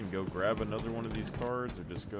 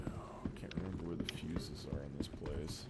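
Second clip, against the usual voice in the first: whispering; 2 semitones lower, 7 dB quieter than usual. Real, not acted. Muttering to himself while searching.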